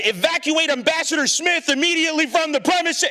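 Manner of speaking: high-pitched frantic evacuation order; mock screaming. Fake security man into his sleeve, screaming in mock alarm. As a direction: play at screaming urgent orders into a radio. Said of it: "I just started screaming".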